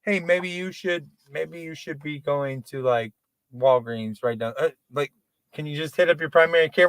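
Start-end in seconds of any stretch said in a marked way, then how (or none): 0.0-4.5 slow, softer dispatcher voice; imagined 911 operator, slow and soft; mock dispatcher. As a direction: talk down slowly like an operator. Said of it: "does nine one one ever tell these people".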